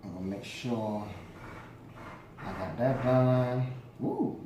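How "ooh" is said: surprised. Real, not acted. Sees mess.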